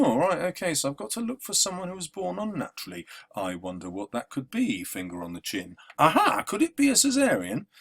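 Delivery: lightly voiced Macbeth, quick, ending with a high Aha; hammed-up Macbeth puzzling it out, then a high Aha; mock Macbeth. Teacher imitating Macbeth solving the riddle, lightly mocking. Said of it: "Macbeth would have gone".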